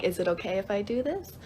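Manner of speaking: "Is it okay if I do this?" rising at the end; questioning. Shown as a demonstration. Teacher showing the word's use as a question, questioning. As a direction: ask "Is it okay if I do this?" with a climbing, checking tune. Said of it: "as, like, a question".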